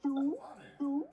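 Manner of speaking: high imitated Baltimore vowels; Baltimore accent. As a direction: show off the Baltimore accent on short words. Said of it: "That's the worst accent".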